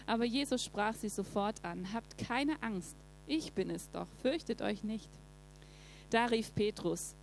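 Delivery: steady, measured Bible reading; calm scripture reading voice. Acted. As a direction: read the passage to the congregation. Reads Bible passage aloud.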